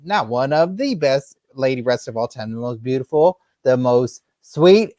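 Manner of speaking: backstage wrestling announcer, hammed up; lightly hyped interview host voice. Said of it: "I gotta get my announcer voice".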